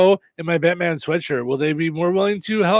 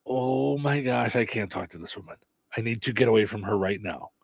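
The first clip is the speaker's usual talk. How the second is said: flustered man; 5 semitones lower, 9 dB quieter than usual. Retold or imitated. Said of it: "he was like".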